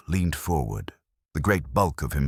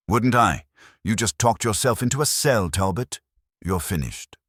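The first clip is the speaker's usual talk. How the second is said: triumphant confrontation; 7 semitones higher, 4 dB louder than usual. Acted. Kramer confronting Talbot.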